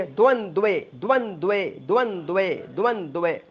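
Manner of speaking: द्वंद्वे with both द्व clusters sounded; द्वंद्वे carefully; pronunciation drill. Shown as a demonstration. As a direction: build up द्वंद्वे part by part. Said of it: "ध्यान देके practice करिए".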